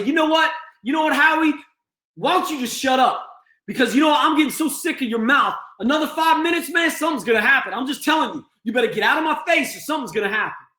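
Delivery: rising pitched, heated threats with a fast finish; threatening patient. Shown as a demonstration. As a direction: warn him off, getting angrier by the line. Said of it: "I've taken it the step further, where now I say".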